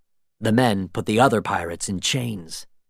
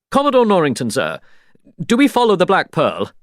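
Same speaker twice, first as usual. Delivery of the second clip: eager sailor; 7 semitones higher, 4 dB louder, faster than usual. A narrator's reading. Sailor asks urgently.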